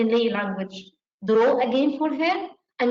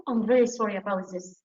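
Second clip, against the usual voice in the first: empathetic apology; 3 semitones lower than usual. Shown as a demonstration. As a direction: say it like you truly mean it. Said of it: "And show empathy".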